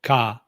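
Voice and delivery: "ka" on a level mid pitch; "ka" said flat and even as the Thai mid tone; neutral tone. Shown as a demonstration.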